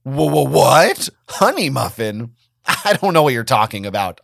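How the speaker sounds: flustered. Acted. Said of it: "I felt my face flush".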